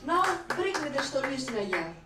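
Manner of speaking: mock Russian lover demanding a drink; Russian accent. Russian lover after sex, demanding in Russian accent. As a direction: order vodka in a hammed-up Russian accent. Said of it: "So the Russian accent is like".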